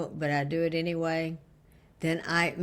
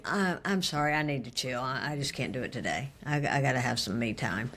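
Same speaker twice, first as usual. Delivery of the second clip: calm apology; 5 semitones lower than usual. Retold or imitated. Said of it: "rather than me just going".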